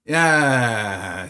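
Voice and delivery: drawn-out mock tantrum whine. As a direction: whine it out like a sulking toddler. Mimics toddler's tantrum whine.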